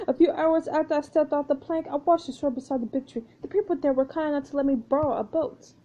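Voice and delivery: a touch of French storyteller; French pirate, recounting. Acted. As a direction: recount it as a lightly voiced French castaway.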